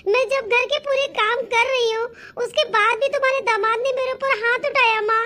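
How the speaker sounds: tearful, level-pitched complaint. Acted. Daughter telling mother her husband hit her, tearful. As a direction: pour out the hurt with mild tearfulness. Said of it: "बेटा रो क्यों रही है".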